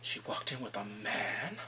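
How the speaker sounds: low, slow stunned disbelief; shocked. Retold or imitated. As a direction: draw it out as shocked parents. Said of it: "they're both shocked".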